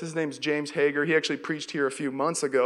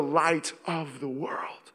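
whispered; 2 semitones lower, 5 dB quieter, much slower than usual. Acted. Sermon climax, hushed.

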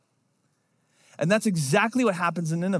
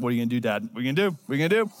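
eager for punishment; much faster than usual. Retold or imitated. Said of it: "ready for the justice".

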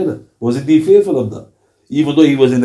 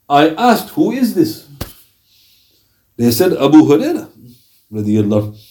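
measured recitation. A narrator's reading. Reads out the report.

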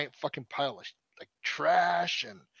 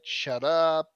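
mock kid yelling a little louder; bratty child snapping back at mom, half-acted; retold kid yelling, only slightly raised; 5 dB louder, slower than usual. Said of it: "The kids were yelling back at her".

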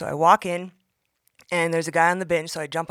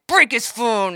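devilish inner voice; 5 semitones higher, 6 dB louder, slower than usual. Retold or imitated.

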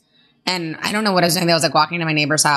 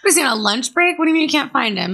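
high-pitched, incredulous questioning; mock disbelief; 6 semitones higher, faster than usual. Real, not acted. Listener hears the spider has vanished, mock disbelief. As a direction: demand an explanation, half joking.

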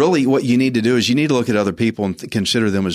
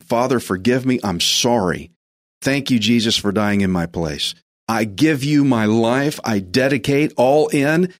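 guided prayer. Acted. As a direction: lead the listener in prayer. Leads sinner's prayer.

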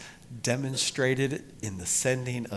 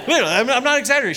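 excited aside; 14 semitones higher, 12 dB louder, much faster than usual. Real, not acted. Laughing aside, very fast.

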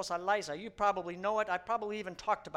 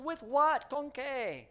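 Henry's question; 7 semitones higher, 4 dB louder, slower than usual. Retold or imitated. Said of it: "And he says".

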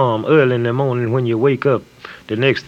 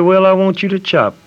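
higher, louder bossy farmer voice; 7 semitones higher, 5 dB louder than usual. Retold or imitated. Farmer ordering the narrator to work, higher, louder bossy voice.

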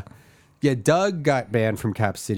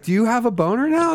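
high mock question; 11 semitones higher than usual. Acted onstage bit.

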